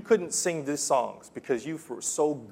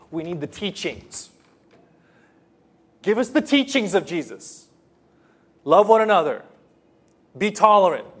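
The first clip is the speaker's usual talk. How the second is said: loud, higher mock voice of smug skeptics; mocking the cultured; 3 semitones higher, 7 dB louder than usual. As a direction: ham up the rich who want only teachings. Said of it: "Here's what the, the rich, the educated, the cultured believe".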